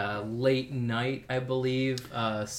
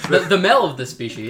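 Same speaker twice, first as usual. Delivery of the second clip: nature documentary; 4 semitones higher, 10 dB louder than usual. Acted. Joining the documentary parody.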